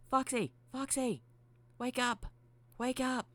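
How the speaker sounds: very high, loud repeated calls; insistent high character voice; urgent wake-up call. Acted. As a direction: shout high to rouse a sleeper. Mangle rousing sleeping Foxy.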